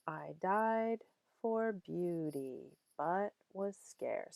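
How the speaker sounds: "I died for beauty, but was scarce" slow, with DIED and BEAU- drawn out; scanning the meter. Shown as a demonstration. Teacher scanning a poem's meter for students, slow stress on DIED and BEAU-. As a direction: sound out each beat slowly, stressing DIED, BEAU- and SCARCE. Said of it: "let's look at the meter".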